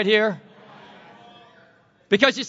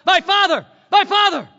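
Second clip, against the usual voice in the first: raised, higher read of the cry; 8 semitones higher, 4 dB louder than usual. A narrator's reading. Preacher reading Elisha's cry over Elijah, raised. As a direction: read it out as a cry, with some lift. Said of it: "cried out".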